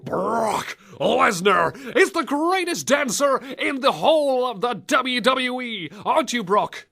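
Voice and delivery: high, slow hype-man announcer drawl; Paul Heyman. Acted. Co-host plays manager presenting his wrestler client, grand high announcing. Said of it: "My name is Paul Heyman".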